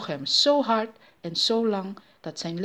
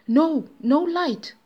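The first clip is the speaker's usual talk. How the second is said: high, loud, drawn-out refusal; slow, insistent command; commanding fake American; 9 semitones higher, 6 dB louder, much slower than usual. A narrator's reading. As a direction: order it in a hammed-up American voice. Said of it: "beval de Amerikaan".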